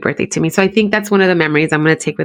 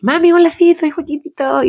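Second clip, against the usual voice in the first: put-on higher, lisping little boy voice; son's lisp; 9 semitones higher than usual. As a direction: imitate a four-year-old with a little lisp. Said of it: "So he had a little lisp".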